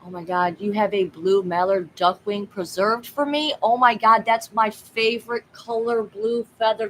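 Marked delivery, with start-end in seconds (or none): 3.6-6.9 loud delighted gasp of joy; light up over the offered feather; excited. Real, not acted. Thrilled at a viewer offering a blue feather.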